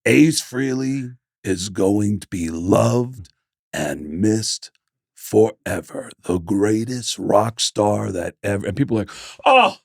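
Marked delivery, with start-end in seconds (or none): 0.1-8.7 solemn tribute. Retold or imitated. Re-enacting solemn tribute on stage. 9.4-9.8 high, drawn-out mock relief; slow, high-pitched imitated crowd; relieved crowd voice.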